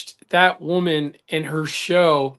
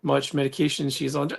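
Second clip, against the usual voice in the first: reading aloud; 5 semitones lower, 7 dB quieter than usual. Real, not acted. Reads a comment aloud.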